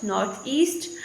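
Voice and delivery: "north east" with the weight on east; stress on EAST. Shown as a demonstration. Teacher giving an adverb example, stress on east. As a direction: stress the final word, east. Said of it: "final element which is stressed".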